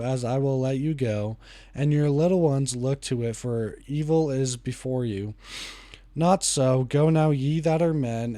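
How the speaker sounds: steady, measured Bible reading aloud; scripture reading. Acted. Reading Exodus aloud to viewers, measured scripture reading.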